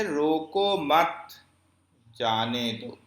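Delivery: slow "روکو مت", clear stop, then "جانے دو"; longer pause. Shown as a demonstration. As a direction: hold a long break between "مت" and "جانے". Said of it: "سکتے سے زیادہ ٹھہراؤ".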